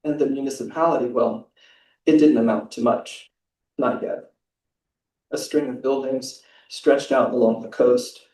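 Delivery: measured, even reading of a novel's opening; calm prose reading; literary reading aloud. Acted. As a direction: read the passage to the audience with care. Reads a prize translation passage.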